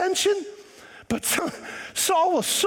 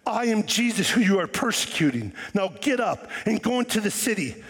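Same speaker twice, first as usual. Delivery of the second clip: Jesus speaking; 4 semitones lower than usual. Retold or imitated. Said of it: "And he said".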